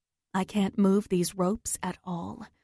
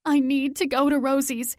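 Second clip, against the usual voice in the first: urgent; 5 semitones higher, 3 dB louder than usual. Acted. Insisting to police.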